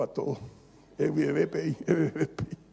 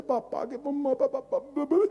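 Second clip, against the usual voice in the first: hija llamando al papá; 9 semitones higher than usual. Retold or imitated.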